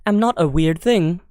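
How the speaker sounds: lightly voiced AI secretary; a hint of computer assistant correcting the user; formal, measured system voice; GLaDOS. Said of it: "Can I do glados?".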